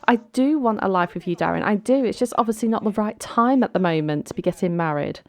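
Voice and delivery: quick, insistent bride; mock arguing. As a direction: protest fast, mildly heated acting. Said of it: "they're both just shouting at each other".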